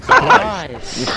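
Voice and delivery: high, loud cheer; excited shout. Real, not acted. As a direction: yell it out in triumph. Teammate wins the fight.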